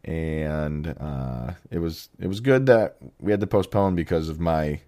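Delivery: rough, raspy voice from being sick; deep singer-like voice. Real, not acted. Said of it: "my singer-esque voice that I have going on right now".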